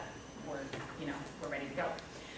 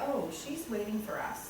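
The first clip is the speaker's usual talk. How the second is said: put-on imagined kids' voice; 6 dB quieter than usual. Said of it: "they're not like".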